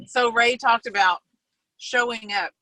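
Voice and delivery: ordinary delivery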